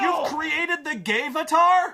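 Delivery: can't believe what the game did; outraged surprised shout; stunned disbelief. Real, not acted.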